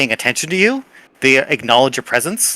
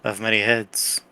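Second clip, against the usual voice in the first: eerie plant chorus. Acted. Plants name their queen.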